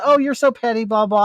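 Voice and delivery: mocking imitation. Husband parroting his wife's name-calling, mocking.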